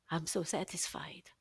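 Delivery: breathy hushed whisper, very slow; slow whispered plea; whispered prayer. Retold or imitated. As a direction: confide it to God under your breath. Quoting her own prayer to God.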